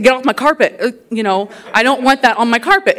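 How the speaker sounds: loud, high scolding mother; hammed-up parental scold; mock scolding. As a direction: shoo the kids off the carpet. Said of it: "I said".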